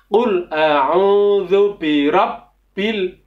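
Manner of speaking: "birabbil" with the b pressed; over enunciating. Shown as a demonstration. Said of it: "cara membaca hurufnya adalah ditekan".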